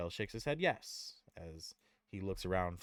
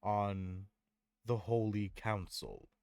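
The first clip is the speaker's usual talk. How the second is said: Tyrael offering; 4 semitones higher, 5 dB louder, much slower than usual. Acted. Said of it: "And Tyrael says".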